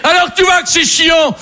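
high, slow mock yell at a baby; hammed-up slow shout at the baby; a slow, high shout thrown back at the baby. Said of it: "Je lui ai juste crié".

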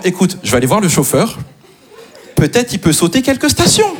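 sweetly sarcastic, rising at the end; mock-very kind reply. Man answering his partner's text, mock-kind sarcasm. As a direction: feign a helpful suggestion, climbing in pitch. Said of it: "je réponds très gentiment".

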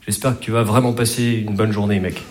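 sincere wish. Shown as a demonstration. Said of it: "il te dit rarement".

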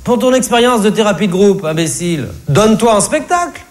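psy imité, voix très aiguë. Retold or imitated. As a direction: singer le psy d'une voix perchée. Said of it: "mon psy m'a dit". (psy imité d'une voix très aiguë)

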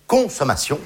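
"consommation" with CON set apart and stressed; stress on first syllable. Shown as a demonstration. Comedian dissects the word consommation, stressing its CON. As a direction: lean hard on the CON of "consommation". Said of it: "la première syllabe est quand même très claire".

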